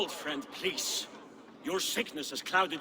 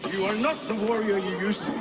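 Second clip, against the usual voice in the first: louder, higher biting retort; angry taunt; 4 semitones higher, 6 dB louder, faster than usual. Acted. Old friend taunting the raging king, angry. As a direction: throw it back at him.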